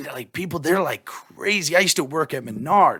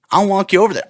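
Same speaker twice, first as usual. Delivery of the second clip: louder, higher sarcastic parroting; mocking echo; 5 semitones higher, 7 dB louder, faster than usual. Mocking the canvasser's offer back at him, sarcastic. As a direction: throw his own words back at him. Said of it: "I'm like".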